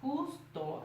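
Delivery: "del fantasma justo" very slow, each syllable held apart. Shown as a demonstration. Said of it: "se separa igual a como se dice".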